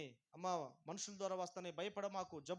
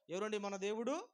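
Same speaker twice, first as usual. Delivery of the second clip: loud call; 4 semitones higher, 11 dB louder than usual. Shown as a demonstration. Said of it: "గట్టిగా చెప్పట్లా".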